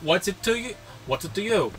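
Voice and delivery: defiant mock New York accent. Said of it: "every accent that Matthew does New York".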